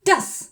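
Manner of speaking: ഡസ് said as das with a hard d; German das. Shown as a demonstration. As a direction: model ഡസ് clearly. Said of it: "ദസ് എന്നോ ഡസ് എന്നോ അല്ല". (German ഡസ് ഉച്ചാരണം)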